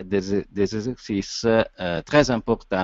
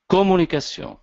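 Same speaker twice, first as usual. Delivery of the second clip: COMMUNICATION set apart and pitched much higher; accento tonico; 9 semitones higher than usual. Shown as a demonstration. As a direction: punch out "communication" high, as the key word. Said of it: "Ça, c'est un accent tonique".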